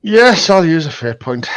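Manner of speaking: a touch of glumness; mildly downcast agreement; sad, reluctant. Real, not acted. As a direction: give in reluctantly, a little dejected. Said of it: "Don't sound so sad".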